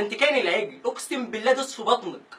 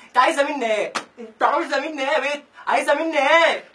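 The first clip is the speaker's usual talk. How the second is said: exasperated pleading; 4 semitones higher, 4 dB louder than usual. Acted. Exasperated plea again.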